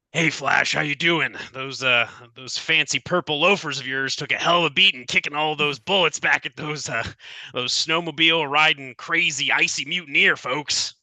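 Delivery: folksy Southern game character; Southern accent. Acted. Gruff checking on his friend Flash, in a Southern accent. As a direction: put on a Southern twang. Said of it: "Don't know why I'm going southern".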